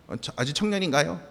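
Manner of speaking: ordinary talk, nothing marked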